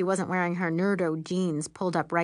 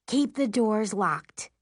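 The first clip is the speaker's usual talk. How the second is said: insistent; slower than usual. Acted. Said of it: "my mom says insistently".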